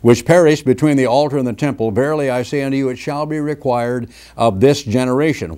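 firm pulpit reading of judgement; preaching scripture. Acted. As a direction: declaim the woes like a prophet.

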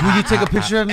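loud, high, laughing imitation; mock the request through laughter; high teasing quote; laughing mimicry. Mocks him amid group laughter.

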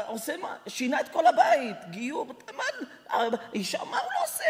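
chuckling through the words; quoted owner half laughing; laughing while quoting. Retold or imitated. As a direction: laugh as you tell it.

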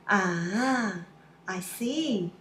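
drawn-out "Ah" of realisation; sudden understanding. Shown as a demonstration. When you suddenly understand, dawning "Ah, I see". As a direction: let it dawn on you slowly. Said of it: "sounds like something you suddenly understand".

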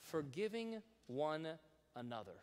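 Forgiving held long and stressed. Shown as a demonstration. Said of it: "here's the key phrase".

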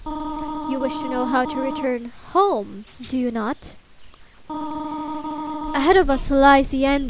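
slow, measured guardian lines; lightly voiced solemn guardian, taking her time; Toriel. Toriel tells the child about the exit, slow and solemn. Voices a game character's dialogue.

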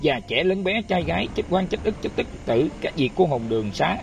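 chanted invocation at an altar, measured and solemn; prayer. Real, not acted. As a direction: recite it like a temple prayer to the spirits. (khấn vái trang nghiêm)

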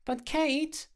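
very high pleading pup voice; squeaky puppy ventriloquism; puppy impersonation. A narrator's reading. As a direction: beg as a cute little dog. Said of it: "donned his puppy impersonation voice".

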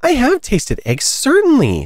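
put-on high-pitched storybook child; high, emphatic character admission; truthful girl. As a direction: answer firmly in a high girl voice. Alice answers the pigeon.

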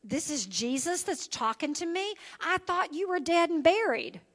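lightly voiced stunned Saul; Saul's disbelief. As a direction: Saul doubting what he hears, amazed. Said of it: "he couldn't wrap his head around".

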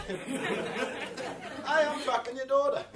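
high-pitched doorstep hello; mock cheery greeting. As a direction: play the dreadful boyfriend introducing himself, pitched high. Acts greeting the parents at door.

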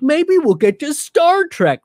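lightly voiced starry-eyed fan; mock dreamy fan. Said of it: "because they're like".

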